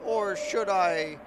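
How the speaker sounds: a scheming mother-queen sweet-talking her daughter; coaxing robot queen. Acted. Queen continues.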